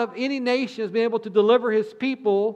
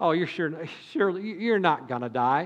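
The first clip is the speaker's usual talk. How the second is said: put-on chuckling, scoffing serpent voice, lower, quieter; 5 semitones lower, 6 dB quieter than usual. Retelling the story, voicing the serpent's reply to Eve: imitating a chuckling serpent. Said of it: "you can almost hear a chuckle when the, when the serpent says".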